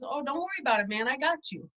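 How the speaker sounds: soft, easygoing imitation of a colleague; quietly unbothered, quoting a laid-back guy; laid-back reassurance. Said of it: "He's very low-key, laid back".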